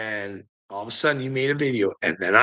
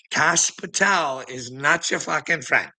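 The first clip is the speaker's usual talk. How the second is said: ordinary talk, nothing marked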